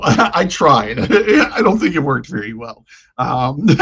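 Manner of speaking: laughing through "I tried"; embarrassed laughter. Real, not acted. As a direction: laugh at your own failed attempt. Laughing at own failed poem.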